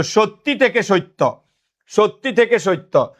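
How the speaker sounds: slowly, সত্যি থেকে সত্য with the last word said "soitto"; measured demo of সত্যি becoming "soitto"; shown sound change. Shown as a demonstration. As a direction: slip an ই before the double ত in সত্য. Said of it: "যদি এটা এরকম হইতো".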